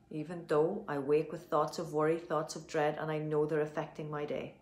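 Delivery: steady earnest affirmation, slowing on the last line; tapping affirmation. Acted. Coach repeating the affirmation for viewers, steady and earnest. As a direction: say it as a calm self-belief statement.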